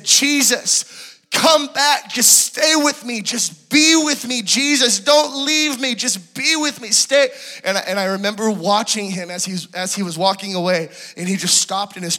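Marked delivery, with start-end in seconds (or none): 0.0-7.3 much higher, louder, slow pleading cry; desperate shout. Retold or imitated. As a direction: call him back with all your strength. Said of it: "And I just get this burst of energy".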